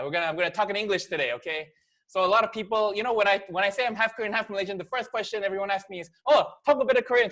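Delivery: ordinary talk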